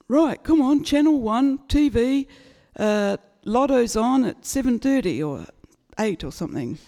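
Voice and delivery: rally the family like it's big news; excited dad. Retold or imitated. Dad rounding everyone up for the lotto draw, excited.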